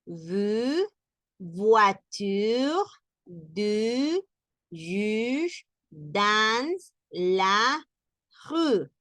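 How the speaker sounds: French words with a tight rounded u. Shown as a demonstration. Teacher listing the u words for students. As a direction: round the lips on each u. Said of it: "con ese sonido de la U".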